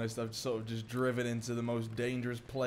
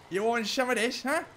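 taunt; 9 semitones higher, 4 dB louder than usual. Real, not acted. Taunting Hardy the enemy.

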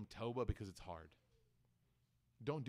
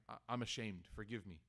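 ashamed plea; 6 semitones lower, 6 dB quieter than usual. Retold or imitated. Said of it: "you tell the person".

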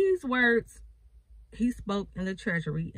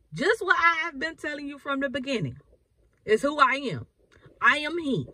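higher and insistent, pressing each phrase; firm emphatic restatement; 4 semitones higher than usual. Retold or imitated. Jesus repeating his answer, firm and emphatic. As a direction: declare it like it can't be changed. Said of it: "He's like".

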